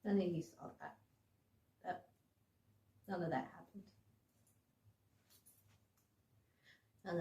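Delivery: low soft murmur; hushed denial. Real, not acted. Telling viewers none of that happened, hushed. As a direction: quietly insist it never happened.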